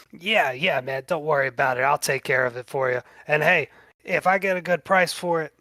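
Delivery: Kickin' John. Acted. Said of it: "And he says".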